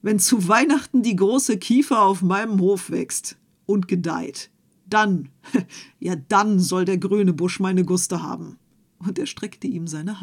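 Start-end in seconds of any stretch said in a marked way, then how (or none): 0.0-8.6 louder, boastful farmer with a laugh; a farmer jeering at the young man, loud with a chuckle; loud mocking promise. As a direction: crow it out, sure it can never happen. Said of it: "rief der Bauer".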